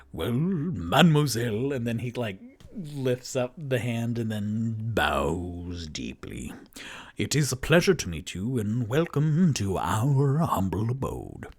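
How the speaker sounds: courtly, breathy greeting with a flourish; gallant bard. Acted. Toot Toot bows to Paige.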